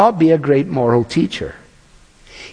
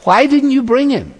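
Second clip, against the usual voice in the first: voicing the Pharisees; 8 semitones higher than usual. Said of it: "And the Pharisees say".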